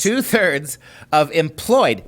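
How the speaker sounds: "two-thirds" and "employed" spaced out slowly; stress on two-thirds. Real, not acted. Co-host restating the figure after interruption, slow emphasis on "two-thirds". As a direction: insist on "two-thirds", word by deliberate word. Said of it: "emphasizing that number again and again".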